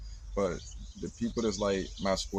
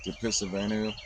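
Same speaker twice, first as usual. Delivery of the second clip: ordinary delivery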